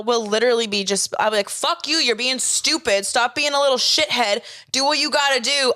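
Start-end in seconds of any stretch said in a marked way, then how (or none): 1.5-5.7 acted sibling spat with raised pitch; retold sibling yelling. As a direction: tell off a sibling in a playful re-enactment. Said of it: "me and my brother and my sister yell".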